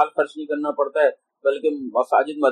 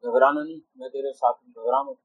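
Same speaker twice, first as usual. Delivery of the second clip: soft reassurance, trailing softer; gently consoling; 4 dB quieter than usual. Retold or imitated. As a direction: quietly comfort someone not to fear. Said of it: "اور تسلیاں دیتا ہے". (نرمی سے تسلی دیتے ہوئے)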